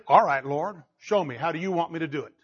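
a meek student asking to be shown; humble attitude. Acted. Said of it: "The right attitude is".

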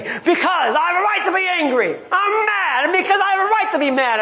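high, fast, huffy self-righteous retort; mock angry spouse. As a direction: snap back like a spouse mid-spat, half-joking. Acted spouse in marital spat.

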